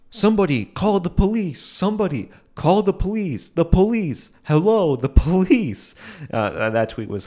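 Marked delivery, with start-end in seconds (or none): 0.1-5.9 much higher, panicked voice begging for police; frantic caller. Retold or imitated. Vlogger imitating a viral video of someone frantically calling police. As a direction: shriek for the police in mock alarm. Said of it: "video of somebody saying".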